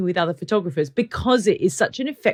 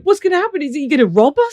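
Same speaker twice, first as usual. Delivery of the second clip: retold fear; 7 semitones higher, 6 dB louder, faster than usual. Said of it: "literally terrified".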